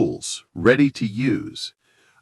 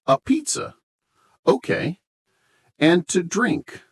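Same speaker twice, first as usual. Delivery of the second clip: much higher, surprised waiter voice; role-play waiter; 9 semitones higher than usual. Pretend. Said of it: "Okay, let's try".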